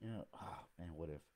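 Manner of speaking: dithering doubter. Acted. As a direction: wring your hands over the choice. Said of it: "leap off the fence of indecision".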